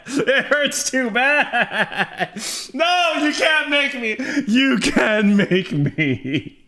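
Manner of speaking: drawn out through laughter; slow laughing whine. Real, not acted. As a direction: stretch it out while laughing. Laughing, slowed protest.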